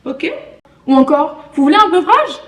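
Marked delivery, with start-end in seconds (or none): 1.5-2.4 high, loud mock Québécois offer; Québécois accent. Québécois offering a drink, playful imitated accent. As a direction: imitate a Québécois server, pitched up. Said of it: "Un Québécois qui te parle français".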